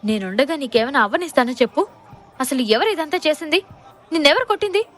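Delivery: a husband's protective anger, building; angry husband. Acted. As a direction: get angrier with each question. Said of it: "కోపంగా అన్నాడు".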